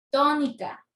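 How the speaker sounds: TÓ-nica, strong start, falling end; tónica as an isolated example, first syllable stressed. Shown as a demonstration. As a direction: punch the TÓ in tónica. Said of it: "intensidad de la pronunciación".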